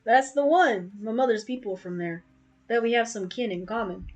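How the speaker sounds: folksy southern merchant; southern accent. Acted. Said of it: "I'm giving him a southern accent".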